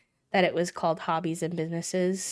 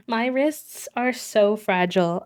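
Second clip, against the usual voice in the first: laughing; 3 semitones higher, 5 dB louder than usual. Real, not acted. Laughing at own fragile wrists.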